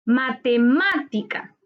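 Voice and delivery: Matemática slowly, punching the third syllable MÁ; stress on MÁ. Shown as a demonstration. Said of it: "Su sílaba tónica está en ma". (Matemática lenta, con acento marcado en MÁ)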